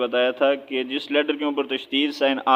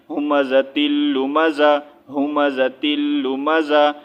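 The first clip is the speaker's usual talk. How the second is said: ہمزۃ اللمزہ drawn out slowly; slow practice reading; much slower than usual. Shown as a demonstration. Teacher shows slow practice, slow. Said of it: "اب اس طرح ایک اس کو پڑھیں".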